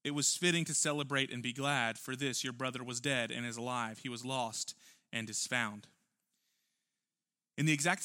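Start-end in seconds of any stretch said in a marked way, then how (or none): 0.0-5.9 calm a hurt son tenderly; gentle father. Acted. Father reassuring his older son, gentle and calm. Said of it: "And the father said to him".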